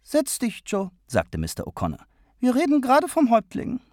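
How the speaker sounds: deutlich höhere, eindringliche Männerstimme; O'Connor, fragend. A narrator's reading. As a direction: fragt empört hoch nach. O'Connor-Figur. (O'Connor protestiert gegen den Königsbesuch, hoch und eindringlich)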